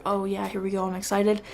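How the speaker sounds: softly tossed-off retold reaction. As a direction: say it quietly, barely invested. Retelling a casual first-viewing reaction.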